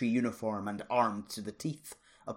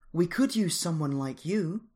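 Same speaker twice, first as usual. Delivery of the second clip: lightly; 8 semitones higher, 6 dB louder than usual. A narrator's reading. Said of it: "she added lightly".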